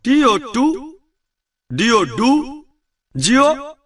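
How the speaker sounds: imitating a school drill; mock school recitation. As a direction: chant spelling like a schoolchild. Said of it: "স্কুলে থাকতে আমি শিখেছিলাম".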